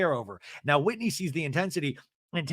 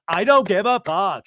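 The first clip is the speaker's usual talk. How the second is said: imitated scream, much louder and higher; 5 semitones higher, 10 dB louder than usual. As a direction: yell it as the raging friend. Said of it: "She's screaming".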